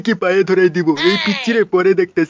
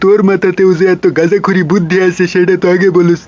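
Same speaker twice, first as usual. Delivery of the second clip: loud comic boss; 5 dB louder than usual. Acted.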